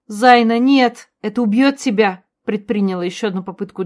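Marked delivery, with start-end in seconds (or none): 0.1-2.2 loud, pleading scream; desperate cry. A narrator's reading. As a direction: beg her to stop. Begging sister to stop. (отчаянный крик)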